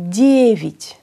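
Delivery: Девять, first syllable punched, second reduced to "vit"; unstressed ya becomes i. Shown as a demonstration. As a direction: stress the "ye" in Девять, say the last vowel as "i". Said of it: "Για χωρίς τόνο γίνεται". (Девять με το άτονο «για» να γίνεται «ι»)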